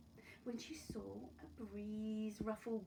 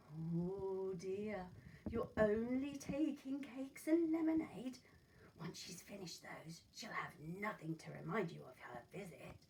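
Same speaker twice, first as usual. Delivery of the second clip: coaxing wolf; 6 dB louder than usual. Acted. Wolf tempts the girl.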